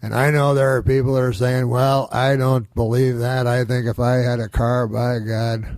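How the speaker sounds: lightly voiced folksy statesman; Nixon. Comic as Nixon answering doubters, lightly imitated. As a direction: argue it out deliberately, in character. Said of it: "do my impression of Nixon".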